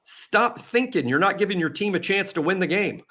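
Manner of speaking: retold coach's rebuke, pitched well up; scolding coach. Head coach telling off his young second baseman, mock scolding. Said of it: "And he said".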